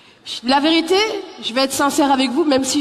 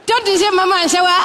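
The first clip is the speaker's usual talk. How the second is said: Malian greeting; 5 semitones higher, 4 dB louder than usual. Retold or imitated. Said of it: "Ça donne, euh".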